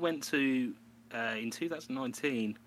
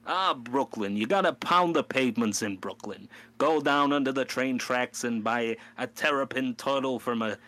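loud hammed-up Brooklyn tour guide; hammed-up New York accent, loud; 5 dB louder than usual. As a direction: sell Brooklyn like a swaggering local. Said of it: "I'm going".

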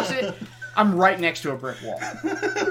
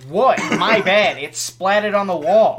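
mock innocent; 3 semitones higher, 7 dB louder, slower than usual. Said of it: "and then I was like".

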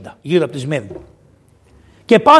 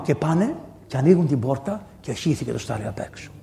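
usual speaking voice

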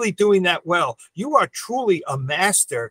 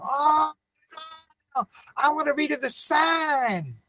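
higher, mock Italian customer insisting; a hint of an Italian accent, pitched up; imitated Italian customer accent; 10 semitones higher, 4 dB quieter than usual. Optician retelling a customer's protest, lightly mock Italian accent. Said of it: "This is the way they speak".

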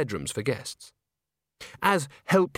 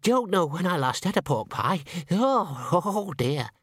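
high squeaky little man with a nervous laugh; 5 semitones higher than usual. Acted. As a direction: squeak it out shyly. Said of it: "in a squeaky voice".

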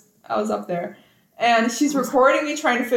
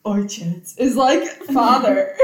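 laughing; 4 dB louder, slower than usual. Real, not acted. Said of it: "I'm literally crying".

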